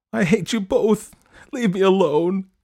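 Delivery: high, loud tearful outburst; sobbing outburst. A narrator's reading. Daughter rejecting both parents, sobbing loudly. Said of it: "she sobbed".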